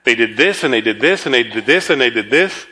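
low, repetitive singsong list of complaints; running off at the mouth. Acted. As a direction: rattle off grievances, each one lifting at the end. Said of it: "run off at the mouth".

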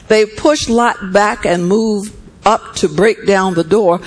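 steady, measured Bible reading; scripture reading. A narrator's reading. Preacher reading Genesis to the church, measured. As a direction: read the passage to the congregation.

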